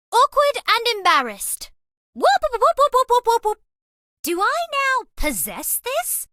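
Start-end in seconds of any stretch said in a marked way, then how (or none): 2.1-3.6 higher, louder happy whoops; excited whooping. Acted. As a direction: cheer over the present. Celebrating a gift.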